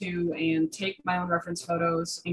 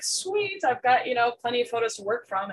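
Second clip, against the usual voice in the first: higher, bright-eyed inner cheer; delighted; 5 semitones higher than usual. Retold or imitated. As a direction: celebrate getting so many photos. Retelling her own delighted reaction.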